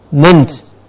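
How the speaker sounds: "Mint" as an unstressed munt; "Mint" as the weak ending of recruitment; reduced ending. Shown as a demonstration. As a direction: say "Mint" with a small schwa vowel. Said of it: "replacing the small er sound".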